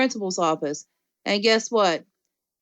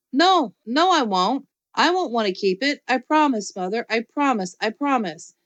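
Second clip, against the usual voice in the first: pleading; 3 semitones higher than usual. Acted. Junie B pleading with Mother.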